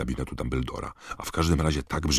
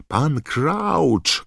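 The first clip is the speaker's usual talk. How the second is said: high, loud desperate cry; Harry shouting; 14 semitones higher, 7 dB louder than usual. A narrator's reading. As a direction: shout it out urgently. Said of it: "krzyknął Harry". (wysoki, rozpaczliwy krzyk)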